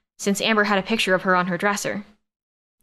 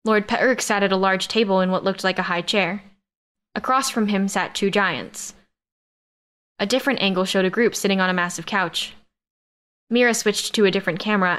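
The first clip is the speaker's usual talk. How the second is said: ordinary delivery, nothing marked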